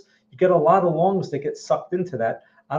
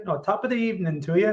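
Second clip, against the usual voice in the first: lightly voiced Irish accent; a playful Irish lilt, barely there; 4 semitones higher, faster than usual. Trader correcting his greeting, faint mock Irish accent. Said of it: "It's my Irish accent".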